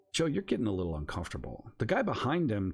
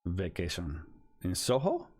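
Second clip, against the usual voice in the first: lightly put-on Russian accent. Stranger doubts their vacation in Soho, light Russian accent. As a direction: question it with a touch of Russian accent. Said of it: "I'm doing a Russian accent".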